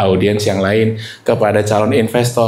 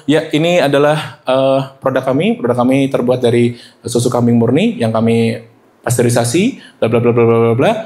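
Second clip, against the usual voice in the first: flat monotone. Shown as a demonstration. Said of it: "datar aja".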